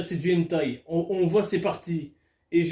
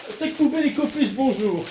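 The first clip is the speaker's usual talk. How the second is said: mock greeting; 5 semitones higher, 3 dB louder than usual. Real, not acted. Greeting the bag mockingly.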